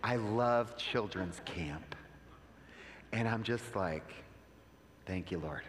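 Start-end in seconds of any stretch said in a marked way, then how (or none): 0.0-2.0 low, slow, soft imitated New York accent; drawn-out, quiet New York imitation; thick New York accent. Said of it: "New York accent". 5.1-5.6 low, soft murmured prayer; soft, low, humbled aside; hushed thanks. Retold or imitated. Retold private prayer of thanks.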